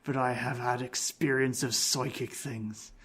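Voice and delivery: a light, hammed-up Irish accent. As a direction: play the stranger with a slight Irish lilt. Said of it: "I don't know why I've gone Irish".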